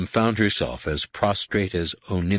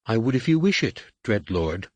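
pleading; 3 semitones higher than usual. Acted. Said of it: "Nenyim supplicated".

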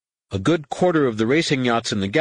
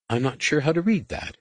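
higher character voice for a doubtful passenger; lightly voiced Tahiri; 7 semitones higher than usual. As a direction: raise the pitch lightly for the character.

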